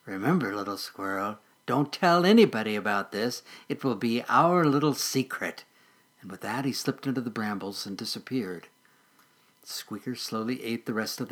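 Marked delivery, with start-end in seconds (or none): 0.1-5.6 sly mole voice. Acted.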